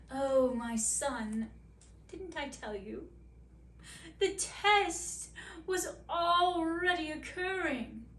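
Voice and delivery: slow, sly queen revealing a secret; a hint of a smug mother queen; queen explaining the secret test to her son, slowly; knowing queen.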